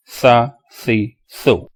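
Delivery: three syllables set apart, dropping at the end; read without spelling. Shown as a demonstration. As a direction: recite each syllable as a drill. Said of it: "Without spelling".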